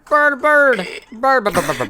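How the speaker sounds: high, loud squawked bird calls; mock bird cry. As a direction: squawk it rapidly, dying away. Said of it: "imagining an eagle that didn't go".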